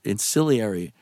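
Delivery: "ancillary" said as in-SILLY-airy; mispronounced word. Real, not acted.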